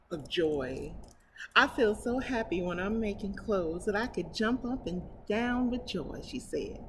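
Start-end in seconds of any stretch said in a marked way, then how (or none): 1.5-6.8 story narration. Acted. Reading a picture book to her viewers, storybook narration. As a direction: read it aloud to children.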